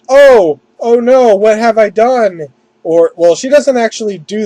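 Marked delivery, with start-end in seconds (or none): 0.1-2.5 higher, louder hammed-up dismay; a mock cry of guilt; mock panic. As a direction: ham up a small panic. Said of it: "being like".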